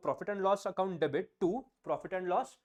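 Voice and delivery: very slow, one word at a time; slow dictation. Shown as a demonstration. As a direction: spell it out for their notebooks. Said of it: "write down". (धीरे-धीरे लिखवाना)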